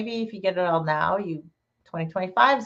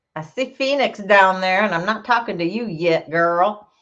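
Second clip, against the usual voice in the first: huge, thick Southern accent. Greeting a viewer in the chat, speaking in a huge Southern accent. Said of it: "I just got a really huge Southern accent".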